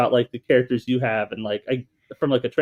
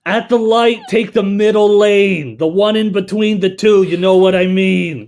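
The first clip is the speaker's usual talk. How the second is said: Gertrude as Alexa; 8 semitones higher, 7 dB louder than usual. Acted. Asked to voice Alexa, Gertrude gives loud high directions. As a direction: play Gertrude giving driving directions. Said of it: "record all your Gertrudes".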